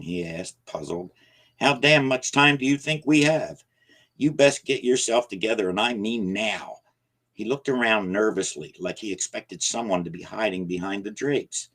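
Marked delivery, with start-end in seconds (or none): 1.6-6.8 much higher and louder; old man exploding in frustration; angry outburst. Acted. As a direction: let it burst out. Jacob scolds, voice rising.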